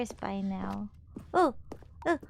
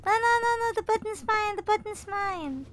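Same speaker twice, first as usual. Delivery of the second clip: higher, louder playful no no no; possessive cry; 9 semitones higher, 3 dB louder than usual. Real, not acted. Player defends the button.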